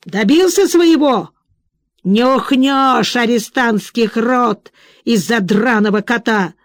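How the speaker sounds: barked. Acted. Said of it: "гаркнул".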